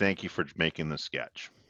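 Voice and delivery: calmest possible voice, very soft, hushed and deep. Playing a character who goes to find Shazzy, speaking in the calmest voice. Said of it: "And in my calmest voice".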